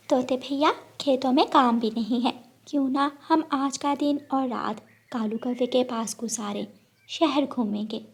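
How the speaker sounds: lightly voiced sparrow, suggesting a plan; eager sparrow. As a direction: sparrow proposing a city visit to the parrot. (उत्सुक चिड़िया की आवाज़)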